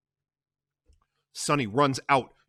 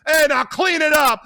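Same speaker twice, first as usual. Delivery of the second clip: much higher, loud; shouted order; 12 dB louder than usual. Acted. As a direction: command her. Carlo orders her.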